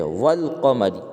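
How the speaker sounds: "والقمری" said wal-qamari; silent alif, sounded lam. Shown as a demonstration. Teacher showing a moon letter, "والقمری" as wal-qamari. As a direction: run wa straight into a clear L in "والقمری". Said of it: "البتہ لام کا تلفظ ہوتا ہے".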